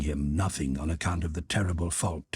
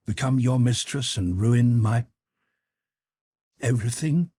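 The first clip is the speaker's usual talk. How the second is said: bitter outburst; 5 semitones higher, 4 dB louder than usual. A narrator's reading. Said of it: "she said maliciously".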